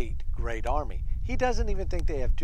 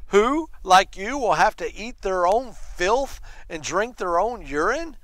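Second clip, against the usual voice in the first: raised, higher voice, reading out a threat; mild retold yell; 4 semitones higher, 4 dB louder than usual. Commander to people on the wall, mild yelling. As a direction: call it out with emphatic force. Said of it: "he starts yelling to the people on the wall".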